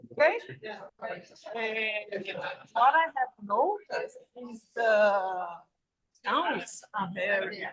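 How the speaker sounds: faint signal cutting in and out; corrupted glitchy audio. Real, not acted. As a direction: voice dropping out on a bad line. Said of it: "sorry for the sound problems here".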